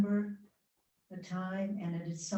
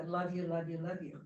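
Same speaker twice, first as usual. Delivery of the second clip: mock offhand "love you". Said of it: "I was irritated with".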